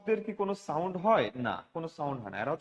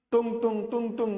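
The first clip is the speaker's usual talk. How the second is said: bell imitation; 2 semitones higher than usual. Shown as a demonstration. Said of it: "এরকম আওয়াজ হয়?".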